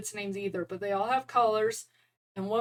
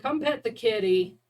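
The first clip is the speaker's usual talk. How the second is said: louder call through the door; calling to husband; 5 dB louder than usual. Retold or imitated. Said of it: "I yell at my husband".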